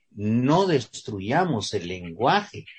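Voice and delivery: slow and grave, every word weighed; slow solemn plea. Retold or imitated. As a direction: plead slowly like a purist defending the language. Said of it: "diría alguien". (lento y solemne, como un purista)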